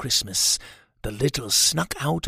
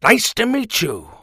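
folksy friendly little man; 7 semitones higher, 6 dB louder than usual. Acted. Hugh shakes cat's nose.

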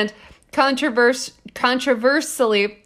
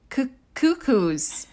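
laughing; 3 semitones higher, slower than usual. Real, not acted. Laughing at the quoted word.

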